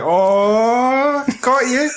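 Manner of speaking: high mocking gotcha, lifted well up. Friend mocking characters in the film, pitched high. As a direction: tease them like you caught them out. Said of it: "they're all like".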